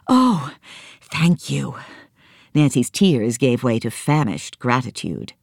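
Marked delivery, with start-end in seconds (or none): 0.1-1.8 put-on a little girl grateful; girl's voice. Nancy answers.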